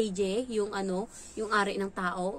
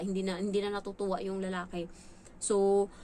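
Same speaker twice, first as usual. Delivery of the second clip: usual speaking voice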